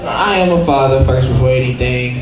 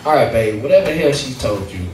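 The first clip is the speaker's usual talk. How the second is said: reassuring dad speech; 3 semitones lower, 3 dB quieter than usual. Retold or imitated. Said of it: "My speech goes a little something like this".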